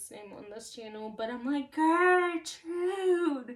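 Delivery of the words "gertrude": very loud, high-pitched screaming. Retelling banging on a locked door and calling the aunt: retelling a scream. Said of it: "screaming my aunt's name".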